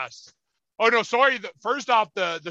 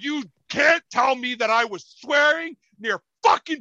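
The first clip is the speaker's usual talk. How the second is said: raised-voice retold argument; indignant denial; 5 semitones higher than usual. Accused fan denying it to a cop, indignant raised voice. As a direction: push back hard in a higher voice.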